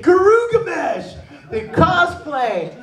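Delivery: high, drawn-out fan cry; acted fan frenzy. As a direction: gush like an overexcited fan. Fans building up excitement in story.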